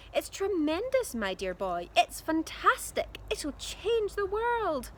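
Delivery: high, loud, gushing eccentric dad; excited Mister Cranky. A narrator's reading.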